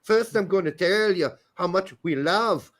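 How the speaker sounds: a weak, slipping Irish brogue, barely there; bad Irish accent. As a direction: ham up a stage-Irish interviewer, but only lightly. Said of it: "that's why I got a bad Irish accent".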